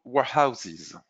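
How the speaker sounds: slow, showy English accent; drawn-out word in English-accented delivery. Shown as a demonstration. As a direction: say it slowly with a put-on English accent. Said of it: "Vous avez vu mon accent anglais".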